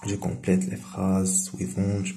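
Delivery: each word read out slowly and evenly for pupils; slow dictation reading. Shown as a demonstration. Teacher reading the exercise to pupils, slow dictation. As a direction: spell it out for the class word by word.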